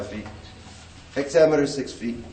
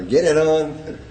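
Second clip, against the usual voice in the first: "Get it on" with the stress landing on "on", louder; anapestic stress; 4 semitones higher, 4 dB louder, slower than usual. Shown as a demonstration. Teacher demonstrating an anapestic phrase, stressing the end. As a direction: punch the "on" at the end. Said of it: "is, uh, anapestic".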